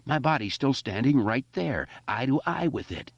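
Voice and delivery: high self-urging cry; screaming at himself. Acted. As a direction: steel yourself aloud. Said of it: "he screamed at himself".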